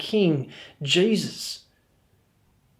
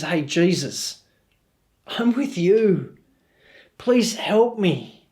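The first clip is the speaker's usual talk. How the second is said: slow pleading plea; slower than usual. Retold or imitated. Dying criminal begs Jesus.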